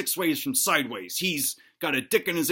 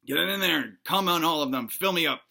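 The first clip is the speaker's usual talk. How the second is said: pleasured groaning; slower than usual. Acted. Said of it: "groaning in pleasure".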